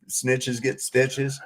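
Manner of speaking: put-on slow, spelled-out old saying. Shown as a demonstration. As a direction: lay the saying out slowly. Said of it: "the old term".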